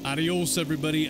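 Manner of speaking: excited. Shown as a demonstration. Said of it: "that did not work so well".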